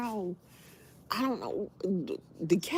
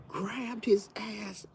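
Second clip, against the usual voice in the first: whispered; 3 semitones higher, slower than usual. Real, not acted. Telling the cat attack.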